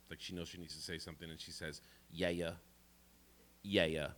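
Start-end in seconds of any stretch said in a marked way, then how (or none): 2.1-4.1 put-on a lightly done Brooklyn New York accent, absent-minded; half-listening Brooklyn grandma, just a hint of the accent. Grandma half-listening to grandson, mild Brooklyn accent. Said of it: "She has this crazy, uh, Brooklyn, New York City accent".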